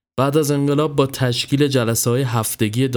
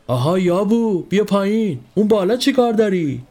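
angry shout; 9 semitones higher than usual. A narrator's reading. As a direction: bark it up the tree at him. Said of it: "عصبانی شده بود ... داد زد".

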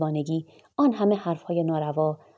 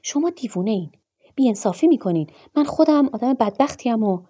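high, raised voice, building louder; anguished shout; 5 semitones higher, 6 dB louder than usual. A narrator's reading. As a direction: protest loudly as the wronged one. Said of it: "آبوگین فریاد زد". (فریاد معترض و درمانده)

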